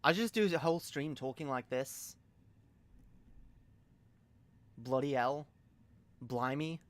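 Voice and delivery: put-on British accent. Shown as a demonstration. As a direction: talk like a cheeky Brit. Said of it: "I can do a British accent".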